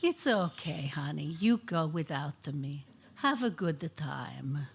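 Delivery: mother hiding hurt behind mild cheer; resigned cheer. Retold or imitated. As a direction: put on a brave face for her daughter. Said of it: "With resignation and attempted cheer".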